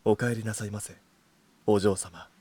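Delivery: low, soft, sweet butler voice; sugary maid cafe greeting. Shown as a demonstration. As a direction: purr it like a devoted butler. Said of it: "じゃあ、俺からな。".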